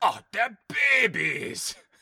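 shrill, very loud, very high belted cry. Retelling a movie scene idea about eggs opening: imitating John Hurt. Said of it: "And John Hurt, it's like".

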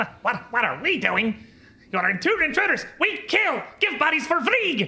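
hostile creature shouting, high and loud.

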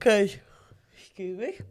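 words stretched out while yawning. In casual conversation, excusing herself while speaking: yawning. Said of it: "Sorry, yawning".

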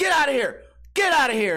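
mock screaming, high-pitched and angry. Recounting a walk where another dog ran up, retelling a scream at the dog. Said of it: "screaming at him".

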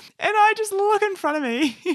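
very high, giggling, barely holding in laughter. Telling a personal story to listeners, laughing while telling. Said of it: "I can't say this without laughing".

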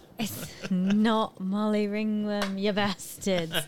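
put-on British accent. Playing a character in a game, answering other players: British accent as Iron Anchor Molly. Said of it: "we're also back to the British accent".

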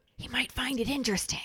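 put-on low undertone. Retelling a scene where a character adds a line in an undertone. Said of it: "adds on an undertone to Arthur".

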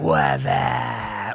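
thick, deep husky voice with up stretched out. Showing how their voice sounds saying what up: thick, husky voice. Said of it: "listen to how thick my voice sounds when I say "what up." ... it's just husky".

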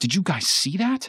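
stuttering, frightened stammer with very high voice. Narrator reads Taylor, pointing toward the river after lightning flashed, stammering. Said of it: "Taylor stammered".

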